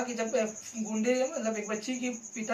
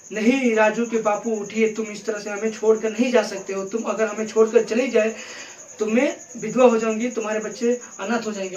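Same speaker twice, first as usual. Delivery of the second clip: acted widow's lament; grieving widow; 5 dB louder than usual. Shown as a demonstration. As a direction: wail over the dead husband. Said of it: "एक औरत है अपने बच्चे के लिए रो रही".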